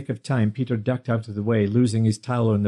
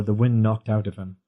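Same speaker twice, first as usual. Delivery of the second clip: plain reading voice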